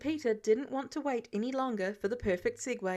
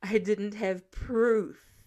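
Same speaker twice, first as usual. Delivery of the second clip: slow, pressing each word; insistent, slow and firm; stressed; 5 dB louder, much slower than usual. Acted. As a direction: lean hard on didn't have proof. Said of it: "Tony stressed".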